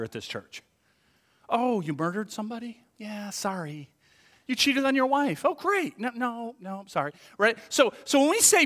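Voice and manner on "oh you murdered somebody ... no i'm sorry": awkward interviewer. Acted. Church interviewer to David who murdered somebody, awkward refusal. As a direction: turn down an applicant apologetically.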